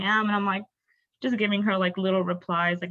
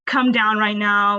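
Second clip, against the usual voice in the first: loud, drawn-out summons; calling him down; 2 semitones higher, 6 dB louder, slower than usual. Retold or imitated. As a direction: imitate a mother ordering her son downstairs, loudly. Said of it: "she's, like, calling for his name".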